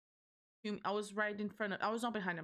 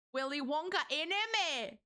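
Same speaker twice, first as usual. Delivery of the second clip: excited exclaim; 6 semitones higher, 3 dB louder than usual. Real, not acted. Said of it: "playful exclamation".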